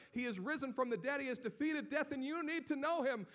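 high, loud preaching proclamation; crying out to the streets of Jerusalem; fervent proclamation. Acted. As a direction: proclaim it to the crowd with fire. Disciples declaring Jesus in streets.

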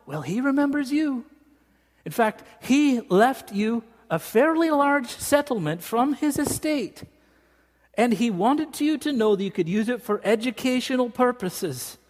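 high, lilting Scottish caller; Scottish accent. Retold or imitated. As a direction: imitate a Scotsman announcing news on the phone, high-pitched. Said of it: "Ian McKenzie from Scotland".

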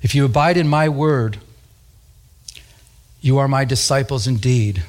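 measured reading with long pauses; scripture reading. Acted. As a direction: read the verse out phrase by phrase. Reads scripture aloud.

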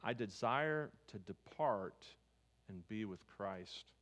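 slow and deliberate, savouring each word; slow reverent quote. Retold or imitated. Preacher quoting Paul's longing to the church, slow and reverent. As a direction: read it slowly like a treasured line. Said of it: "He says".

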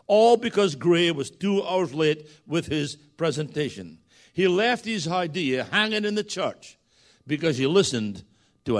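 emphatic pulpit storytelling, projected; story narration. A narrator's reading. Preacher reading the telephone story to his congregation, as emphatic narration. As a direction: read the tale aloud with measured emphasis.

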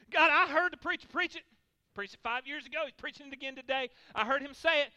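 demanding prayer. Acted. Voicing demanding prayer at God.

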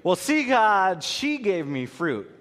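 put-on blame-shifting like a caught kid; mock whiny Adam excuse; excuse-making. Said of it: "Nice excuse, right?".

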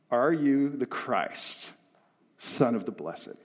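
slow, deliberate demand; measured, direct interrogation; point-blank question. Acted. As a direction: press each word of the question. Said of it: "Point blank. Tell me right now".

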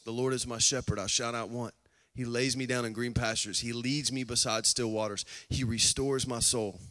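low, soft, even scripture recitation; hushed psalm recital. Acted. Preacher reciting David's psalm to the congregation, low and hushed.

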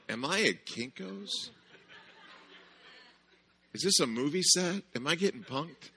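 stunned disbelief at the welcome; bewildered. Retold or imitated. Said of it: "I'm looking around going".

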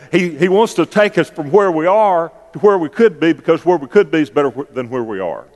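preacher voice. Shown as a demonstration. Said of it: "what if I say it twenty different ways".

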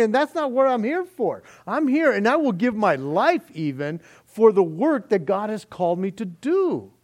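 loud, high, fervent refusal; defiant declaration. Acted. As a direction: proclaim it like a man who won't run. Preacher voicing Nehemiah's defiance.

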